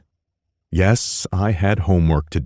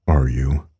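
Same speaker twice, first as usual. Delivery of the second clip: softly; 3 semitones lower than usual. Acted. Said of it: "he asked softly".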